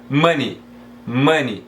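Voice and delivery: MONEY as "muh-nee", ending in ee; correct pronunciation. Shown as a demonstration. Teacher modelling the right pronunciation for students, silent E. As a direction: repeat "money" separately with no E sound. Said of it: "Não existe essa pronúncia".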